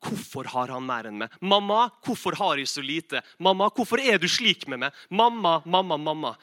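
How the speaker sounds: mock childish outcry, insistent and fairly loud; calling to mum. Child complaining to mum about brother's sweets, calling out. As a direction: plead with mum in repeated hammed-up bursts. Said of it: "jeg roper til mamma".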